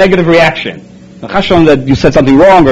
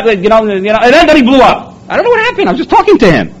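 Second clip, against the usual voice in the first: high, wide-eyed "who, me?" voice; innocent parent; 9 semitones higher than usual. Retold or imitated. Mother telling the therapist about her son, innocent and baffled. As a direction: play the baffled mother with a lifted pitch.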